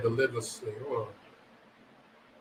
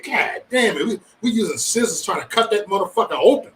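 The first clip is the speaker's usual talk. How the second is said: higher-pitched, mock-exasperated grumble; retold frustration; 4 semitones higher than usual. Retelling the crab leg struggle, mock frustration. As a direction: relive the struggle with mild exasperation. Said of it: "I was so frustrated".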